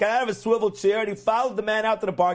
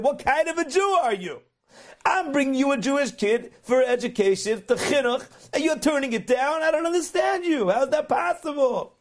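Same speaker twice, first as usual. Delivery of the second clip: mock yelling; 5 semitones higher than usual. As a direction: retell an angry outburst with mild force. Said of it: "he starts yelling at the guy".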